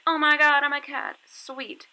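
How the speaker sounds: put-on excited kid. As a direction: imitate a delighted child. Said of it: "And they're like".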